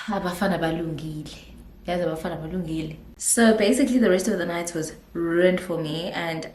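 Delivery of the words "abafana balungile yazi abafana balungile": quiet, low, deflated murmur; deflated aside. Retold or imitated. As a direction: say it low and softly after a sigh. Stunned, recalls her reaction after sighing.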